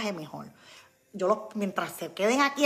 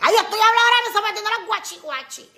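amused; 11 semitones higher, 10 dB louder than usual. Real, not acted. Laughing at her own Spanglish.

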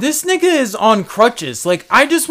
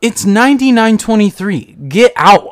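louder, firm ordering him out; kicking him out; 6 dB louder than usual. Retold or imitated. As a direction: throw the guy out of the store. Throwing customer out of store.

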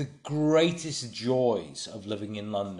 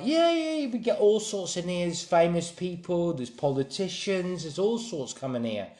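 put-on London girl's accent; 5 semitones higher than usual. Girl tells a newcomer about her clientele, high London accent. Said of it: "I'm not gonna do the accent".

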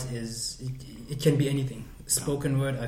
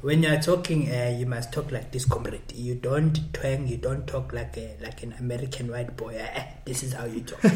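lecturing in a put-on South African accent; South African political accent. Shown as a demonstration. Politician correcting a comrade's way of talking, South African accent. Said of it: "South African political accent".

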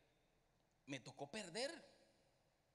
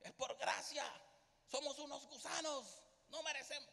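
mock pious preacher; 8 semitones higher than usual. Mocking what preachers teach.

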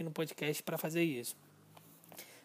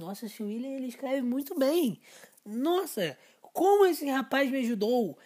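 impressed reader; 6 semitones higher than usual. Retold or imitated. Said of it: "com essa mesma entonação de voz".

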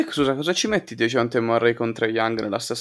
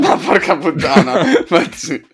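laughing curse; explosive italian cursing; 5 semitones higher, 3 dB louder than usual. Real, not acted. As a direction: swear through a laugh.

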